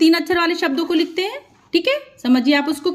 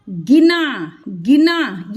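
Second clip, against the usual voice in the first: गिना said with ना fully open and clear; open final na; 3 semitones lower, much slower than usual. Shown as a demonstration. Teacher contrasting गिना with गिन. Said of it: "ना पूरा खुल के बड़ा सारा".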